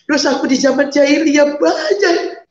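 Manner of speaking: slow, tearful confession; crying. Real, not acted. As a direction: choke up admitting past sins. Crying over her past sins.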